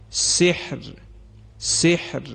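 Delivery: سحر with a thin, light final ra; thin ra demo. Shown as a demonstration. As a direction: end سحر on a fine, light ra. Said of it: "یعنی بخوانیم". (سحر را با راء نازک پایانی بخوان)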